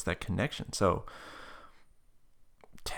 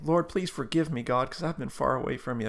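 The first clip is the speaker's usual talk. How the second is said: pleading prayer; 5 semitones higher than usual. Retold or imitated. Retold lady's repentant prayer.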